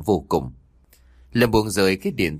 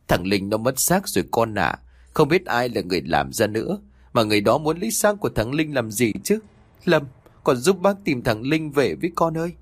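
whisper sobbing; 4 semitones higher than usual. Acted. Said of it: "cố nói trong tiếng nấc".

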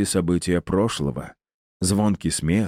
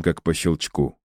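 ordinary delivery, nothing marked

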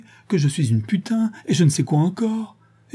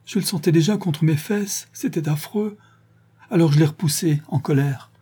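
higher, tearful outburst; crying; 5 semitones higher than usual. Acted. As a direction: sob it out, voice pitched up. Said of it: "en larmes, avec de gros spasmes".

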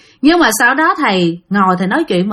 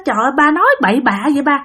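fast alarmed cry; 3 semitones higher, much faster than usual. Retold or imitated. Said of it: "mấy người con la quá trời la".

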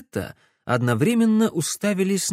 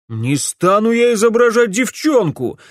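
higher, louder indignant yell; yelling refusal; 9 semitones higher, 7 dB louder than usual. A narrator's reading. Alex refusing to pose as a girl, yelling. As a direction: shout him down, outraged. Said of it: "завопил Алекс".

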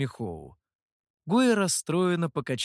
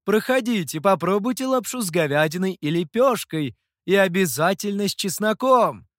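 higher, louder sales call; hawker's pitch; 5 semitones higher, 6 dB louder than usual. A narrator's reading. Stall owner loudly invites passers-by to eat. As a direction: lure customers in loudly. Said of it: "зазывал хозяин".

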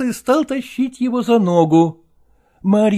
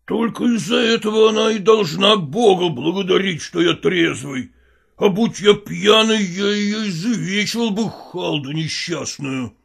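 threatening husband; 3 semitones higher than usual. Acted. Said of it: "угрожающе произносил Михайло".

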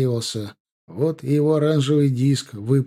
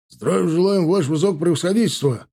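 high, raised troop salute; shouted in chorus; 5 semitones higher, 3 dB louder than usual. A narrator's reading. Dragoons saluting their general, high shouted response. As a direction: shout the salute as a rank of soldiers. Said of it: "прокричали драгуны".

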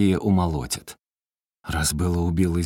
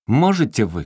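retold shout; 4 semitones higher, 5 dB louder than usual. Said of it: "кричит".

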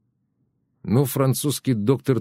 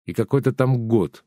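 ordinary delivery

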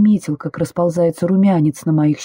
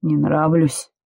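mocking smirk; 2 semitones lower, slower than usual. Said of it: "в его голосе проскальзывала усмешка".

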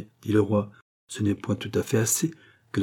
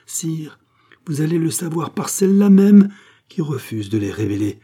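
grand announcement; 6 semitones higher, 6 dB louder than usual. Acted. Gilbert announces to the king.

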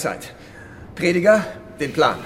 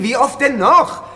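exasperated snap, higher and louder; angry outburst; 8 semitones higher, 7 dB louder than usual. Acted. Olaf snaps at Marie who keeps asking about Hans, angry. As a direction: blow up at her. Heated quarrel over Hans.

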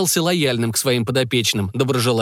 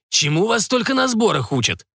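grumbling; 8 semitones higher than usual. A narrator's reading. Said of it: "поморщился и посетовал".

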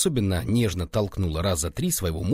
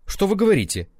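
much higher, loud puzzled question; asking again; 11 semitones higher, 4 dB louder, faster than usual. A narrator's reading. Deaf official asking the constables to repeat, loud. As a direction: ask back, hard of hearing. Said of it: "переспросил Соцкий".

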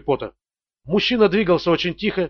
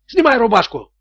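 shouting at a terrified man; shouted order; 5 semitones higher than usual. A narrator's reading. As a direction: snap the order out. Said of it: "выкрикнул Тони".

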